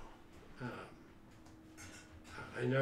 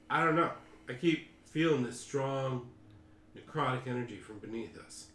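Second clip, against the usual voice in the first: leading man voice. Acted. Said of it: "leading man voice".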